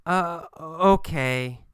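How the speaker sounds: slow, drawn-out uh before okay; hesitant. Acted. Kathy giving in to Gabriel, hesitant. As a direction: let the okay come slowly, unsure.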